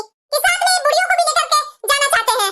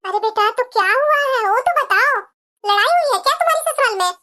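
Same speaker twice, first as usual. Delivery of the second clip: a lower mother's voice, calming her crying daughter; soothing mother; 6 semitones lower than usual. Acted. Mother calming her crying daughter who arrived at night, soothing and lower. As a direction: hush her like a worried mother.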